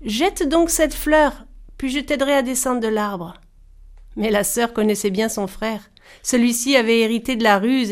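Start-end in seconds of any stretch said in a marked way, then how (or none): 0.0-3.3 sweetest voice. Acted. Brother coaxing sister to drop the flower, sweetly. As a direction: coax her like honey, hiding the greed. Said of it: "prit sa voix la plus douce".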